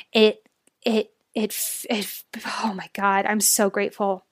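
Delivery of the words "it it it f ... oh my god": real tears, words breaking into a whisper; choked up. Real, not acted. Host thanking her listeners from the heart, voice breaking with real tears. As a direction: voice cracking, unable to get the words out.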